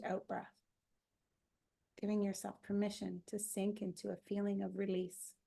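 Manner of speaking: calm, measured meditation guide; unhurried relaxation-session voice; guided meditation. Acted. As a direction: invite them gently to settle, with pauses between phrases.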